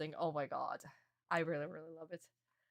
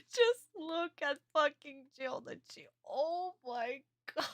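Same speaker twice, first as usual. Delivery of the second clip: high squealing laugh through the words; delighted squeal; 10 semitones higher, 5 dB louder, slower than usual. Real, not acted. Fan squealing over the manga panel, laughing high.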